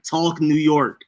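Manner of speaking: slow, put-on New York talk; New York drawl on purpose; deliberate New York accent. Shown as a demonstration. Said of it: "avidly be, like".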